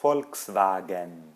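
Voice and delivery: Volkswagen slowly with German sounds; German pronunciation. Shown as a demonstration. Teacher repeating the German brand name. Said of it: "a gente pronuncia assim".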